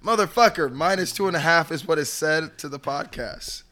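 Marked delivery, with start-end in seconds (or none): 0.0-1.7 loud, higher outburst; exasperated shout. Real, not acted. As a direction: blurt it in frustration. Arguing about the line.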